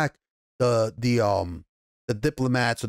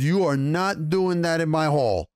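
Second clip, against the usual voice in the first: slow, emphatic ban, pitched up; imitating a lord's stern prohibition; retold firm refusal; 4 semitones higher than usual. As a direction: lay down the law word by word, slowly. Lord forbids fighting in his hall.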